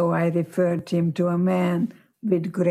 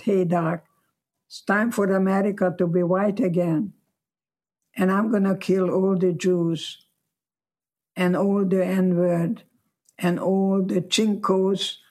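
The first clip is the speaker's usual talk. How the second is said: lightly imitated Texas accent; a hint of a Texas boy's accent. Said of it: "in a Texas accent".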